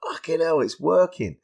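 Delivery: retold rush of it working; amazed. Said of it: "and I'm like".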